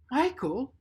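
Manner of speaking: high and loud call of the name; cried out. Acted. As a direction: call him out in alarm. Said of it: "Anne cried".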